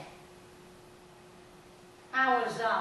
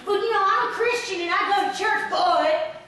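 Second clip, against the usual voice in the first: mock churchgoer excuse; 6 semitones higher, 7 dB louder than usual. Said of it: "when he starts".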